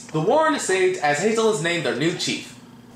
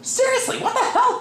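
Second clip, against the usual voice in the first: laughing. Real, not acted. Laughing disbelief at film clip.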